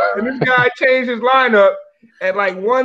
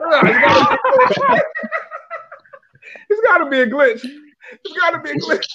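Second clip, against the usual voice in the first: mock excuse; 5 semitones higher than usual. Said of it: "This guy told us that the system glitched".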